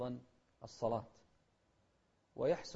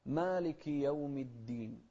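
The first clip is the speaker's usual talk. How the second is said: measured, drawn-out verse reading; slow Quran recitation; slower than usual. Shown as a demonstration. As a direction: recite slowly and clearly. (ترتيل بطيء واضح)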